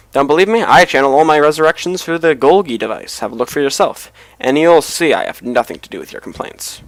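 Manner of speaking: lightly voiced haughty clan leader; indignant necromancer. Game player voicing a necromancer denying blame, lightly indignant. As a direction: declare it firmly, as a mildly affronted sorcerer.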